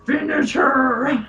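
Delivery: slow drawn-out game announcer. Pretend. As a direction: stretch it like a fight announcer. Announcer line in Scorpion skit.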